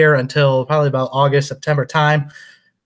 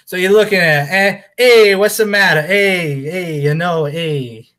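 put-on Boston accent. Doing a bad Boston impersonation for the Super Bowl, hammed-up Boston accent. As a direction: play a brash Boston fan, badly done. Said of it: "do my best Philly and best New Jersey, or I'm sorry, New England Boston impersonation".

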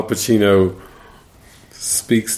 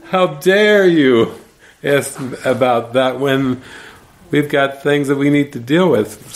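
hammed-up slow, pitched-up tirade; ranting, firing it out; 5 semitones higher than usual. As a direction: imitate an outraged star scolding, easing off. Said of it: "ranting and raving and just firing it out".

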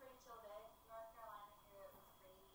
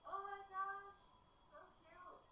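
high, loud gushing over cuteness; delighted squeal; 11 semitones higher, 7 dB louder, slower than usual. Real, not acted. Delighted by a baby photo.

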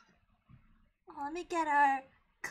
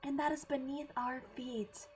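sinister cult leader; 5 semitones lower, 5 dB quieter than usual. Pretend.

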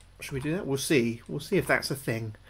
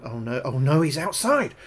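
rising panic, shouting; frantic alarm as the janitor appears; panicked; 3 semitones higher, 6 dB louder than usual. Real, not acted. Streamer to chat, seeing the janitor outside, panicked shout.

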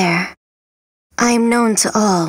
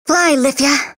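calling out; 5 semitones higher than usual. Acted. Releasing a spirit in battle.

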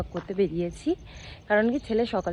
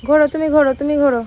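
sing-song cooing; 5 semitones higher, 11 dB louder than usual. Real, not acted. Mother cooing to toddler.

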